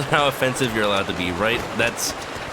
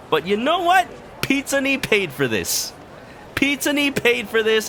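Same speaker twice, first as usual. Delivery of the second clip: mock announcer; 11 semitones higher than usual. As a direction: sell it like a fake ad. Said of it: "mock sponsor shout-out".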